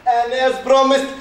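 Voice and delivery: slow, laughing through it; slow laughing villain. Acted. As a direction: promise with evil glee. Leader laughs while promising.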